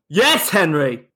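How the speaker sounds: stretched-out mock greeting from afar; acted calling out. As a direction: hail someone across the street, drawn out. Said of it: "He points at you and goes".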